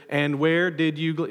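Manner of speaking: bored group reading, no knowing tone; flat textbook reading. Shown as a demonstration. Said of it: "we read it like a textbook".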